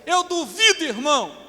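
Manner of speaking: high, loud exhortation; impassioned pulpit cry; full-force preaching. Real, not acted. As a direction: drive the point home to the congregation.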